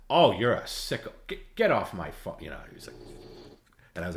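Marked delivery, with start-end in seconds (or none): 0.1-2.4 mock angry host. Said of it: "And he goes".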